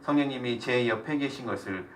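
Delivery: earnest spoken prayer, phrase by phrase; closing prayer. Real, not acted. Teacher prays aloud to God for the group, prayerful. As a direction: lead the group in prayer, leaving room for amens.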